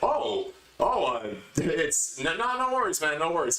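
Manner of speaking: squeaky nervous backpedal; flustered backing off. Retold or imitated. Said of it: "And the guy's like".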